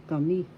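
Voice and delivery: kami with MI accented and lifted; stress on second syllable. Shown as a demonstration. Teacher shows how it is pronounced, MI in kami stressed. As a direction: lean on the final MI in kami. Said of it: "So you say it, because pronounced".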